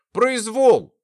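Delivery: loud, high one-word protest; indignant declaration. A narrator's reading. Restrained man declaring his grievance, loud protest. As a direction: declare it as an outrage. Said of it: "заявил Артур".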